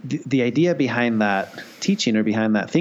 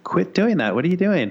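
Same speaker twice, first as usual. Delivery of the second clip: higher-pitched mild mock protest; upset kid; 8 semitones higher than usual. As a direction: lightly imitate an exasperated kid objecting. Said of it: "kid is just really upset".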